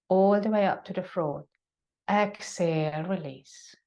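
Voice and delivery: calm yoga breath cues with long pauses; sparse, unhurried breathing instructions; guided breathing. Acted. Leads a breathing exercise.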